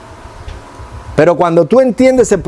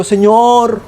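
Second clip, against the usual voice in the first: roundabout formal prayer; 2 semitones higher, slower than usual. Retold or imitated. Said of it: "No, yo no oro así".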